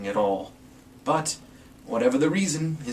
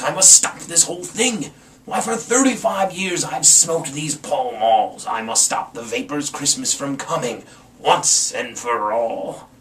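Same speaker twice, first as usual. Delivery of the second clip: determined Grinch; 2 semitones higher, 4 dB louder than usual. Acted. Grinch vows, voiced in story.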